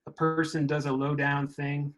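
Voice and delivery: put-on reading aloud in a light mid-Southern accent; mid-Southern accent, like the speaker's grandparents talked. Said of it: "I'm gonna read it in, in that mid-Southern accent".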